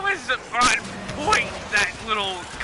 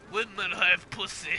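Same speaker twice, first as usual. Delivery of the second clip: put-on Russian accent. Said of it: "I can't do a Russian accent".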